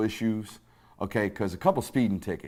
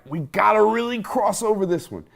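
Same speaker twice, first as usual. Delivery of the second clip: player at the brink; 10 semitones higher, 4 dB louder than usual. Retold or imitated.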